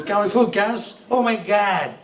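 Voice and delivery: lightly put-on American twang; mock American accent. Software worker back from two US weeks, mock American accent. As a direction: imitate an acquired American accent. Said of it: "They won't say petrol".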